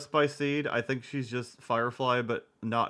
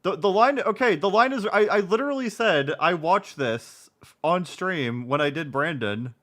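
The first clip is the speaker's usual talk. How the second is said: raised voice, defending himself; exasperated loud; 6 semitones higher, 6 dB louder than usual. Real, not acted. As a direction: push back loud and fed up. Exasperated defense against chat.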